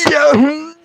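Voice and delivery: high strained yeah; pained squeak. Retold or imitated. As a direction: squeeze it out through the pain. Answering nurse in pain.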